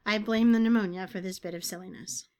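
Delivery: unvoiced whispered aside. Real, not acted. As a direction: whisper it, voice fading. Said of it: "My voice is still kind of fading".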